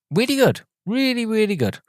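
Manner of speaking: high enthusiastic praise. Real, not acted. Emphatic praise.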